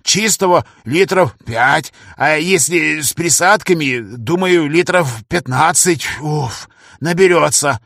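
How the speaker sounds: lightly voiced old man, puffing; old man panting between words; strained old professor. Старик-профессор, измотан. (старик, запыхавшись)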